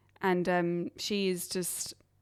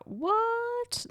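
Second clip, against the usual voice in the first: high squeaky disbelieving what; recalling first seeing the internet, a shocked high yelp. Retold or imitated. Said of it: "I was like".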